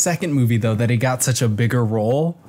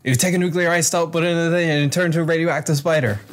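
quick, cocky mock explanation; fast, falsely sure know-it-all; falsely overconfident; 3 semitones higher, faster than usual. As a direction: rattle off bad science with total confidence. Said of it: "falsely overconfident section when he was like".

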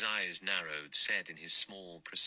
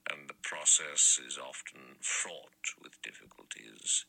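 put-on low, slow, half-whispered old judge; dry old judge gently mocking her piety; lower, slow murmured irony from an elderly judge; slightly ironic murmur; 5 semitones lower, slower than usual. A narrator's reading. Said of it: "He murmured in a slightly ironic voice".

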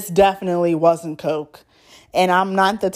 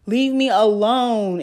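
irritated, pitched higher; mildly exasperated, higher-pitched whine; annoyed; 4 semitones higher than usual. Real, not acted. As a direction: complain at an interrupting caller. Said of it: "I hate when people call me".

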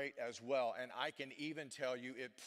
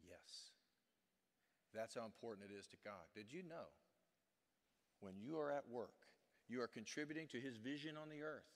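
intimate soft preaching; 5 dB quieter than usual. Real, not acted. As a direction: draw them in with a hushed sincere tone. Preacher drops to intimate soft delivery.

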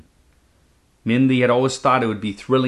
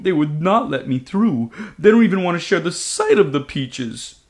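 higher, aggrieved dragon voice; indignant dragon; 4 semitones higher than usual. Acted. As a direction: complain with wounded indignation. Dragon complains.

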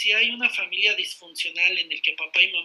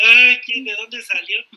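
mock shock; 9 dB louder than usual. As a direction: play a jokey double take. Joking morning-after shock at someone.

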